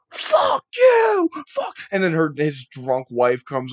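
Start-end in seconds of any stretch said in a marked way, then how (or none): 0.1-1.8 very high, loud shrieking curse; furious shout. Retold or imitated. Kenzie screaming at the heckler in the tunnel, loud shriek. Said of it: "Kenzie's like".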